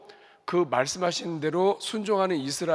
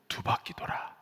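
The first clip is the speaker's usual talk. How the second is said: whisper; 7 dB quieter than usual. Shown as a demonstration. Preacher counts laps aloud.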